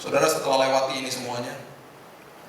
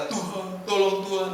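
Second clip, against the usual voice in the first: ordinary crying; 4 semitones higher than usual. Shown as a demonstration. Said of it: "nangis biasa".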